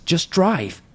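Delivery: high, loud, urgent command; urgent retold yell. Frightened child to mom at the wheel, urgent high yell. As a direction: re-enact a panicked order to get away. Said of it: "I had the sense of urgency in my voice".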